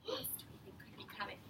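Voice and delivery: whispered, quick secret question; suspense whisper. Acted. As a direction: draw the kids in with a hush. Building suspense for the children.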